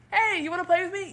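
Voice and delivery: a hint of a pleading little kid; eager kid. Acting a kid asking parent.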